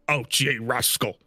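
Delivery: put-on accento scozzese buffo, tono più alto; Scottish accent. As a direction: accento scozzese marcato, lento su "Ouch, ye rascal". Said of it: "Scottish accent?".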